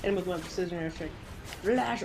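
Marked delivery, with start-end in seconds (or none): 1.6-2.0 shout. Real, not acted. Throwing flashbang in game.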